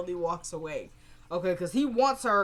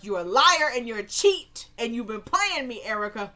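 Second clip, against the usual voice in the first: louder mock confrontation; acted accusation; 5 dB louder than usual. Candace confronting Erica as viewers expected, mock angry accusation. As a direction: hurl it like an imagined showdown.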